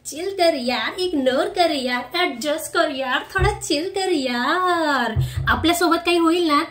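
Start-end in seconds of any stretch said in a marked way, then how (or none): 0.1-5.1 mock shrugging advice. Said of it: "आपण just म्हणत राहायचं".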